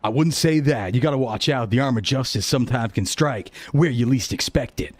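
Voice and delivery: lightly voiced self-proud fitness hero; boastful hero. Jordicus boasts in character.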